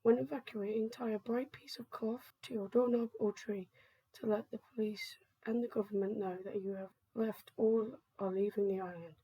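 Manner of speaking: measured, formal evacuation broadcast read; emergency announcement. Acted. Government announcer warning citizens to evacuate the island, formal announcement. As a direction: deliver an official public warning.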